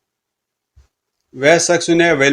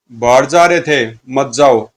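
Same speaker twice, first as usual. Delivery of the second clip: firm acted warning from a fiend; mildly menacing monster command; 2 semitones lower, slower than usual. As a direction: forbid the escape, drawing out the command. Fiends block the man's escape.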